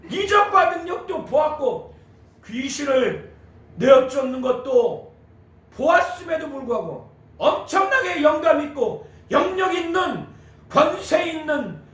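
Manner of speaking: high, emphatic sermon delivery; impassioned preaching. Real, not acted. Preacher explaining the woman's love for Jesus, impassioned. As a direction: drive each phrase home from the pulpit.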